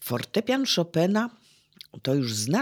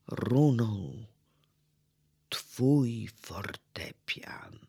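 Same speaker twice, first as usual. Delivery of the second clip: ciche, zamierające „runął” i szeptem „twój fortepian”; cichy szept; 5 semitones lower, 5 dB quieter, much slower than usual. Acted. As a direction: wyszeptaj zakończenie, gasnąc. Poem ending, repeated word. (wykładowca szeptem kończy wiersz)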